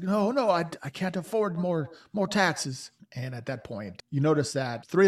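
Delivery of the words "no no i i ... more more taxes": higher, pleading victim voice. Acted. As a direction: beg them, a little scared. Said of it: "He's like".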